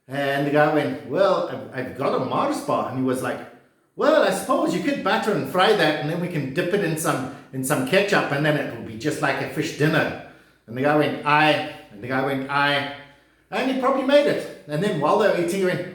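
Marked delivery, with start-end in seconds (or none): 1.1-2.9 lightly put-on Glaswegian; mock Scottish accent. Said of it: "my brilliant Scottish accent". 4.0-10.3 mock Scottish accent. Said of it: "my brilliant Scottish accent". 11.3-11.7 short Glaswegian assent; mock Scottish accent. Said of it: "my brilliant Scottish accent". 12.5-13.0 short Glaswegian assent; mock Scottish accent. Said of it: "my brilliant Scottish accent".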